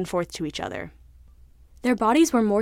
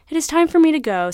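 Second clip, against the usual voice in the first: higher and louder, firm resolve; cod declares loudly; 8 semitones higher, 7 dB louder than usual. Acted. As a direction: announce your departure boldly. Cod announces leaving.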